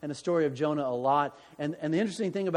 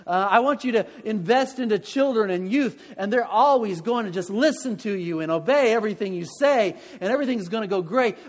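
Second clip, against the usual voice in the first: imagined promise from God; 3 semitones higher, 3 dB louder than usual. Pretend.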